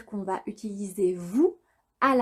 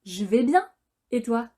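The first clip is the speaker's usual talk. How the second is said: said quicker. Shown as a demonstration. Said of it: "Plus rapidement".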